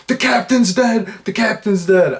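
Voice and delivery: mock panicked shout. Flight attendant suddenly panicking over the intercom, high shout.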